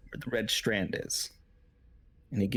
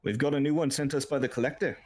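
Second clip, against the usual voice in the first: lightly voiced guard, higher pitch; a hint of a high guard voice; reporting guard; 5 semitones higher, faster than usual. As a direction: announce a newcomer to the orc.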